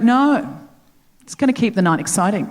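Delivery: lightly voiced Australian Uber driver; Australian accent. Driver waves off his passenger's worry, in a lightly imitated Australian accent. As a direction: play it breezy with a put-on Australian accent. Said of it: "I'm going to do the accent".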